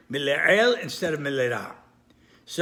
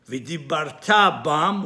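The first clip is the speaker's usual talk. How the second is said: V'dibarta bam with the stress on "ta"; stress on last syllable; 3 semitones lower, slower than usual. Shown as a demonstration. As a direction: lean on the "ta" that ends V'dibarta, before bam. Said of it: "should be pronounced on the last syllable".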